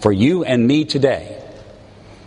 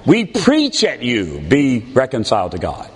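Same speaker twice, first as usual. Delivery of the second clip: mock preachy; 2 semitones lower than usual. Preacher mocks a lecturing apostle, preachy. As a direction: preach down at them. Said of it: "He does not say".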